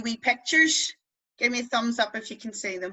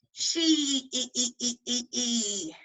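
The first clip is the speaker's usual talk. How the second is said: "She" ending in little squeaked "e" sounds; wee mouse; slower than usual. Shown as a demonstration. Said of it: "is like the wee mouse going".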